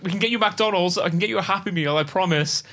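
high-pitched, mildly panicked promise; sheer panic. Retold or imitated. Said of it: "it's just out of sheer panic".

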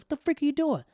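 high-pitched incredulous yell; imitated outraged friend. Friend catching him running away, yelling. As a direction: yell it in disbelief.

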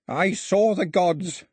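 high, slow, winded exultation; panted triumph. A narrator's reading. Exhausted priest smiling to Mao, panted triumph. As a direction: pant it out in triumph. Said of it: "he panted".

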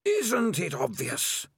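slow, eerie, high otherworldly voice; drawn out like wind through a cave. Acted. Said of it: "sound like a wind blowing".

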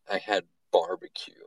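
hushed confession; whispered. Real, not acted. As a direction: whisper it like a secret. Confessing a guilty secret.

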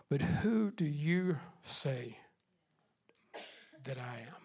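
slow, soft and intimate, dropping near silence on that I am; hushed question. Acted. Pastor asking the congregation Jesus' question, hushed and slow. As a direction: lean in and ask it quietly.

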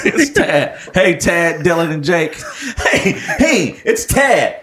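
lightly voiced cheery host intro, laughing; a hint of a peppy white frat guy greeting; mock white podcast host. Friends pretending to open their show as white guys, lightly voiced cheery host. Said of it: "let's argue".

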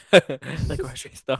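drawn-out slow laughing repeat; slowly repeating the grocery store while laughing. Real, not acted. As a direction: stretch it out slowly through a laugh. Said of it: "repeats slowly, laughing".

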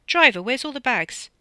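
high, loud demand across the hall; imperious call. A narrator's reading. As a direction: summon the driver like staff. Rude guest calls to driver.

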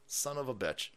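soft, grumbled swearing; muttered curse. Acted. Host cursing the absent co-worker, quiet mutter. Repeats curse under breath.

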